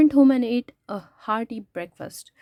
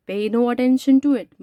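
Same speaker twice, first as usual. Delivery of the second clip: louder, irritated brush-off; roaring uncle; 3 semitones higher, 7 dB louder than usual. Acted. Uncle roars at the farmer over his lost horse, loud. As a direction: bellow it at the farmer, a homesick big man. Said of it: "my Uncle Khusrau roared".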